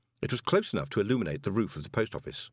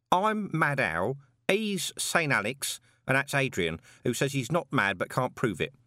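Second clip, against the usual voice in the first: Mad Owl voice; 5 semitones higher than usual. Acted. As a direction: stretch out the names, a bit unhinged. Mad Owl introduces the trio.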